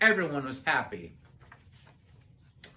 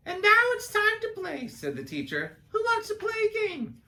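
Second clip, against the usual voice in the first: teacher voice. Acted. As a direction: call the class together like a kind teacher. Teacher announces playtime.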